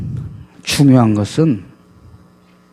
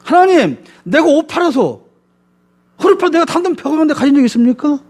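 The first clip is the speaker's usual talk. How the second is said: retold protest to God. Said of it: "한번 따져봤어요".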